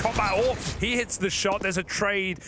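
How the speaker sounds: esports caster. Real, not acted. Calls a sudden kill.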